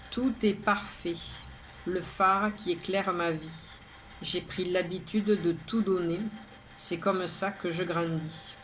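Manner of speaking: measured, even poem reading with pauses between lines; poem recitation. Acted. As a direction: recite it line by line, evenly. Second reading of own poem.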